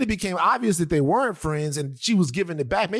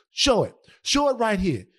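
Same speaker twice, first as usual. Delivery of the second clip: retold dare; 5 semitones higher than usual. Retold woman daring the man.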